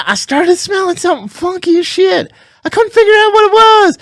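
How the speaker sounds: high, worked-up Southern twang; Southern accent. Real, not acted. Recounting a funky smell at the gym, Southern accent. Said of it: "listening to the Southern accent".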